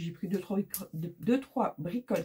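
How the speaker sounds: real tongue-tripped false starts; stumbling over words. Real, not acted. Vlogger listing her small purchases too hastily, stumbling over words. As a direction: trip over the words and restart. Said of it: "du coup je bafouille".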